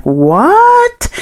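high shocked question from the office; startled what. Retold or imitated. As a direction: jump up in surprise. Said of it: "And they're like".

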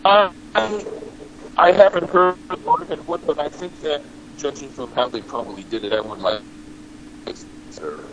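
choppy bad connection; cutting out like a bad call; breaking up. Real, not acted. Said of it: "You're still breaking up".

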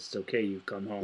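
softly retold, gentle line; tender reassurance. Woman in the film comforting the dog, retold softly. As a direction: say it low in volume, a hushed comfort. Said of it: "puts her hand on him and says".

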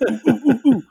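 high, excited little hoots; mock eager. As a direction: imitate someone bursting to show off. Eager crewman grabbing attention.

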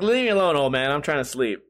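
mock-grouchy pet brushing off its owner; grumpy dog voice. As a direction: grumble like a dog woken up. Dog voiced grumbling in story.

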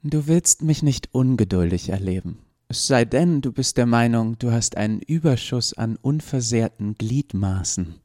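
menacing. Acted. Lucy threatens Toni.

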